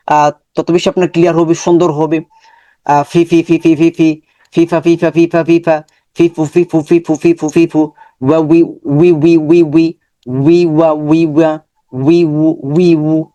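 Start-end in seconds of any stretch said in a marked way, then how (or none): 2.8-13.2 syllables said apart, then joined into কালি repeated evenly; syllable blending drill. Shown as a demonstration. Teacher shows students how to join syllables. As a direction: build কা and লি into কালি for the class. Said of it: "এভাবে practice করবেন".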